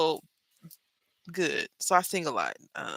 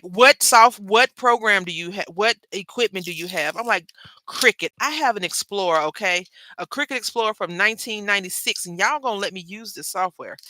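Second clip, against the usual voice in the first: mock indignant retort; 3 semitones higher, 5 dB louder than usual. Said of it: "I didn't say it like that".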